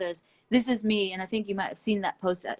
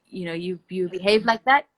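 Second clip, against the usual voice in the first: firm warning. Retold or imitated. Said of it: "and I just said".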